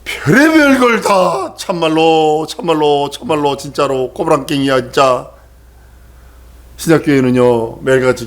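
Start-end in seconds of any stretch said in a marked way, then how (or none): 0.0-5.3 mock Jeolla drawl, falling away; Jeolla dialect. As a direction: imitate a grumbling Jeolla-dialect navigation voice. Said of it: "전라도 사투리로 내비를 해놨는데".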